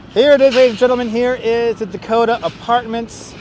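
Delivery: ta-da, Brooklyn guide style; grand tour guide reveal. Acted. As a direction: present it like a tour guide with a flourish. Tour guide presenting a landmark.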